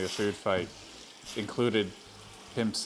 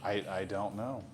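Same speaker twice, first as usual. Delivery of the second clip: whisper; 4 dB quieter than usual. Real, not acted. Whispered evasive reply.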